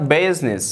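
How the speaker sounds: "business" in two syllables, "BIZ-nis"; silent I. Shown as a demonstration. English teacher correcting the wrong reading, "business" with silent I. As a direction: say "business" with nothing between z and n.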